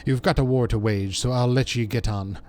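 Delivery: earnest, loosely Welsh dialect voice; amateur Welsh accent, defending the lad; attempted Welsh accent. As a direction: vouch for a young comrade in a rough Welsh accent. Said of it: "trying to do a Welsh accent".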